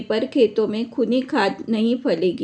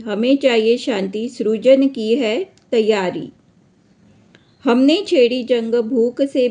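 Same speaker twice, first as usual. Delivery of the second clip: emphatic, measured verse reading; declaimed Hindi poem with marked rhythm; poem recitation; 4 dB louder than usual. Acted. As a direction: recite the stanza firmly, line by line. Recites the poem's stanza.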